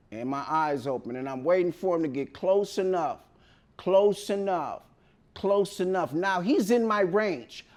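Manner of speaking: low, soft, stealthy narration; hushed suspense. Retold or imitated. Patient playing dead till dentist comes close, hushed. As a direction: drop low and quiet, lying in wait.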